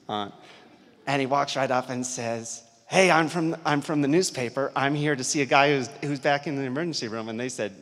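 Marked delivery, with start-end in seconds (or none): 2.9-7.3 bold, loud, hurried self-introduction; breezy loud newcomer voice; loud confident announcement. Retold or imitated. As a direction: barge in and announce yourself loudly. Photographer barging in announcing himself.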